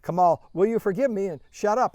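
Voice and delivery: high, loud appeal across the room; loud public plea. Retold or imitated. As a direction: call it out for everyone to hear. Leader asks forgiveness on stage.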